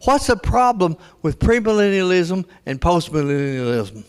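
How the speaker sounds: tongue sticking to the roof of the mouth; words thick, like a mouthful of peanut butter; mouth full of peanut butter. Real, not acted. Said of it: "I feel like I got peanut butter in my mouth".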